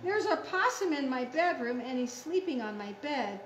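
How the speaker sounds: picture-book surprise, then settling; excited story reading. Acted.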